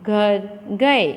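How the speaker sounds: slow and spaced out for the class; teacher slowing down to show the pause. Shown as a demonstration. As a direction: stretch out सीता और मोहन घर गए word by word. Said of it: "फिर थोड़ा अटकना है".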